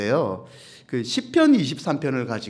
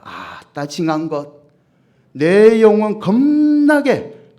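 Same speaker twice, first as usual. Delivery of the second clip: Jeolla dialect; 3 dB louder than usual. Shown as a demonstration. Pastor showing the congregation a Jeolla Psalm recital, in a hammed-up Jeolla dialect. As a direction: recite with Jeolla flair and exclamations. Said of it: "전라도 사람은요 이 시편 이십삼 편을 이렇게 외운대요".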